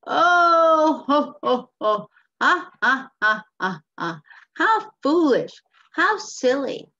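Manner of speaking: loud, hammed-up fake belly laugh, then jeering; mocking townsfolk. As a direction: put on big ho-ho-ha-ha ridicule. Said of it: "maybe making fun of the".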